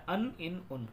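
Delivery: ان said as "an", then "in", then "un"; vowel endings. Shown as a demonstration. Teacher reminding learners of endings, ان as an, in, un. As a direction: give ان three distinct vowels: an, in, un. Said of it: "ان چیز کا خیال رکھنا ہے".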